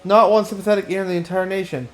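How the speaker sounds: hammy theatrical lament, lightly voiced; a hint of a pompous artist overplaying his woe; melodramatic aesthetician. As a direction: wail your injustice like a ham actor. Reads Dandelion's melodramatic lament.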